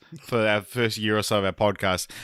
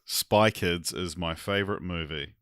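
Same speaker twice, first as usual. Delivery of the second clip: Kiwi accent; 3 semitones lower, 4 dB quieter than usual. Shown as a demonstration. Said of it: "in a Kiwi accent".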